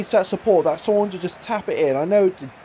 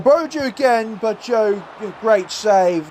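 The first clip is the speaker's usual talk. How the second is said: excited commentary; 3 semitones higher, slower than usual. Real, not acted. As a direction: call the attack with urgency. Live commentary of a dangerous attack.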